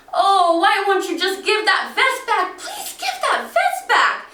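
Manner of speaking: high, loud wailing plea; mother crying out to the robbers. Retold or imitated. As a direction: beg through tears for the vest. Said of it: "My mother starts to cry".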